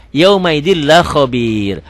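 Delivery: slow "Yaumaidil la" with a doubled L; merged into L. Shown as a demonstration. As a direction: join "Yaumaidil" and "la" without N. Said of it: "Hukumnya idgham bila guna".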